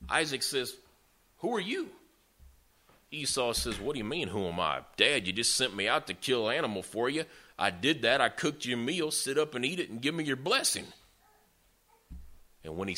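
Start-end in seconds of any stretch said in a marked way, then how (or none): 1.4-1.9 high-pitched baffled query; puzzled question. Retold or imitated. Old father to the son at his bedside, puzzled. 3.8-10.9 insistent, climbing higher toward the end; retold exasperation, building to a demand; mock indignant protest. Son who cooked the meal to his dad, indignant.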